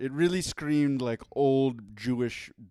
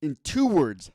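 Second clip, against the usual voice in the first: boxing ring announcer; 3 semitones higher, 8 dB louder than usual. Acted. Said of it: "ring announcer voice".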